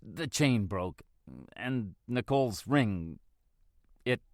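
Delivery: slow, halting words as the throat closes; choked grief. Acted. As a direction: break off, unable to finish. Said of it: "my throat is closing".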